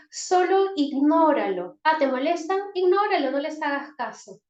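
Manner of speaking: loud, high brushing-off advice; dismissive parent. Shown as a demonstration. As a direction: wave the problem away impatiently. Padre aconsejando ignorar, ejemplo. (consejo despectivo y en voz alta)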